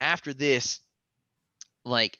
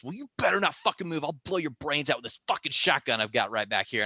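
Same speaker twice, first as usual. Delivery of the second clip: a touch of a fast threat; mock menace, quick; menacing threat; 2 semitones higher, faster than usual. Neighbor threatening him with a shotgun, mock menace. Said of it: "he goes".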